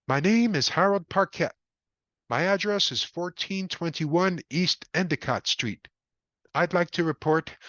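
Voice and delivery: nervous caller. Acted. Harold reports on the phone.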